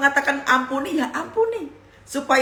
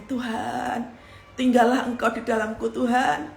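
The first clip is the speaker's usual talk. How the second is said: mild retold plea, repeated steadily; tearful pleading prayer. Preacher re-enacting his prayer while worshipping, mildly tearful plea. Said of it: "Saya itu cuma nangis gitu".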